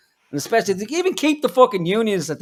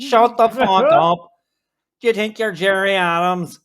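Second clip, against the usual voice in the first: fed-up shout; 3 semitones higher, 6 dB louder than usual. Real, not acted. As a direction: spit it out at the screen, fed up. Yelling at the politician on TV.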